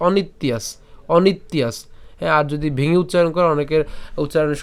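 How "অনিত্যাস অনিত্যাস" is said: "অনিত্যাস" joined as onit-tyas in one word; said together. Shown as a demonstration. Teacher showing the joined form, "অনিত্যাস" as one word. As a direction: say "অনিত্যাস" with no break after the t. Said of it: "একসাথে বললে".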